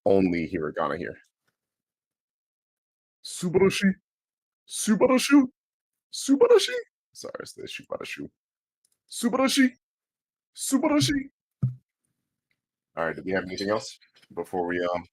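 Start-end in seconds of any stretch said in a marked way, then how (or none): 3.2-6.7 "Subarashi" said very high and louder, syllable by syllable like the machine; mimicking text-to-speech. Streamer practicing the word after the computer voice. 9.1-11.3 "Subarashi" said very high and louder, syllable by syllable like the machine; mimicking text-to-speech. Streamer practicing the word after the computer voice.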